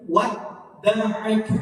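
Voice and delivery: slow "wadda'aka" without the doubled d; wrong reading. Shown as a demonstration. Teacher showing students the reading to avoid. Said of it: "Jadi bukan".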